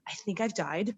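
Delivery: soft breathy whisper of dying embarrassment; mortified whisper. Retold or imitated. To Tracy Brooks after the bathroom mishap, mortified whisper. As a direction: whisper it like you want to vanish. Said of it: "I'm like".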